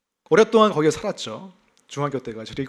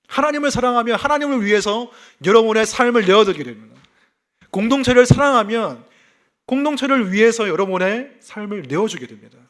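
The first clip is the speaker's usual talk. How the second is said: louder, higher preaching appeal; preaching at full force; 6 semitones higher, 7 dB louder than usual. Acted. Pastor urges the congregation to give their lives, full-force preaching. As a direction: drive the point home to the pews.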